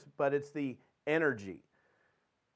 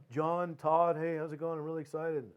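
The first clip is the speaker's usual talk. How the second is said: unexcited excitement. Acted. Salesman greeting a prospect with no conviction, unexcited. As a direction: claim excitement without sounding it. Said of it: "doesn't sound like it".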